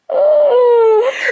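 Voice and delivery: high wordless squeal of outrage; exasperated squeal. Acted. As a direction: squeal out the frustration. Outraged rant at absent gossip.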